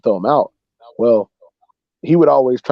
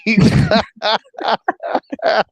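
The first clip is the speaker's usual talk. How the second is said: laughing fit; 11 semitones higher than usual. Real, not acted. Guy caught with brownie crumbs.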